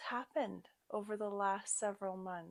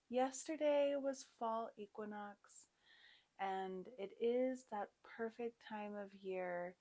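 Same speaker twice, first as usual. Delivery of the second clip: guided yoga meditation. Real, not acted. Yoga teacher guiding students to set an intention, calm guided meditation. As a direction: settle the class gently into the practice.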